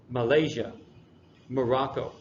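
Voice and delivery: Malaysia and Morocco stressed on the middle syllable. Shown as a demonstration. Teacher showing students the fourth pattern, middle syllable stressed in Malaysia, Morocco. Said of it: "the emphasis is in the middle".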